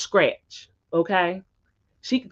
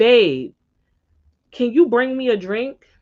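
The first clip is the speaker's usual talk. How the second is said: put-on yell, higher; 5 semitones higher than usual. Retelling how the man she was with called her for a drink: imitating someone yelling. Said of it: "he yells to her".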